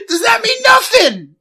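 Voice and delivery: put-on high, loud Boston-accented plea; wounded mock appeal in a Boston accent. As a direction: cry out in hammed-up Boston. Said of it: "a Boston accent".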